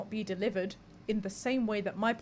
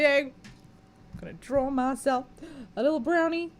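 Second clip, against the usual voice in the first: playful excited; 5 semitones higher, 7 dB louder, slower than usual. Real, not acted.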